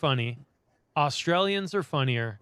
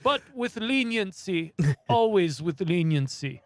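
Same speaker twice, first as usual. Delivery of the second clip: slow mock royal voice; 4 semitones higher, slower than usual. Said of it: "it was like".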